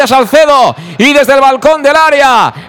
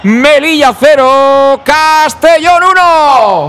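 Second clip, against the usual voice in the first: slow score read; slower than usual. Real, not acted. Reading the score.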